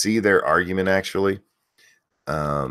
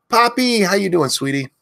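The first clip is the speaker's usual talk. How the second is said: yelling names; 11 semitones higher than usual. Real, not acted. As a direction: belt each viewer's name out. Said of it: "if you want me to yell your name".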